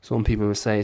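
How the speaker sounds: put-on generic Irish lilt; generic Irish accent. Shown as a demonstration. Impressionist demonstrating Irish accents for jokes, generic Irish accent. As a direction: do a broad, all-purpose Irish accent. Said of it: "it kinda sounds a bit like this".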